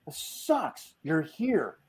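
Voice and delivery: high-pitched retold griping; disappointed complaint. Acts out his own disappointed complaint.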